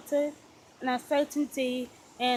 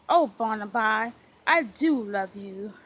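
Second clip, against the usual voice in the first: crying out; 3 semitones lower than usual. Acted. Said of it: "she cried".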